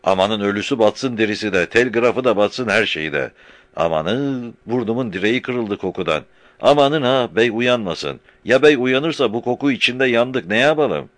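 panicked loud. A narrator's reading. Murtaza panics about the smell.

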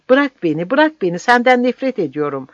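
high, loud screaming; shrill screams. A narrator's reading. Woman pinned down by the captain, high loud screams. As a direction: scream to break free. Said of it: "tiz çığlıklar attı".

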